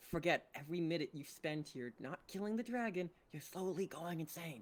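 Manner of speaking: hushed whisper. Huddling close to Vorum to warn him quietly: whispering. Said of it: "kind of like a whisper huddle here".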